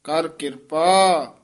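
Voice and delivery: ਕਿਰਪਾ ਤੇ ਥੋੜਾ ਠਹਿਰਾਅ; short pause after ਕਿਰਪਾ. Shown as a demonstration. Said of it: "ਇੱਥੇ ਥੋੜਾ ਠਹਿਰਾ".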